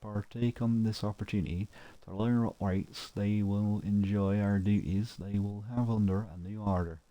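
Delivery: a light put-on Yorkshire accent, proclamation style. Reading an imperial notice board aloud, in a mild Yorkshire accent. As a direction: read it out like a Yorkshire town crier, lightly. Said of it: "read that in a, uh, Yorkshire type accent".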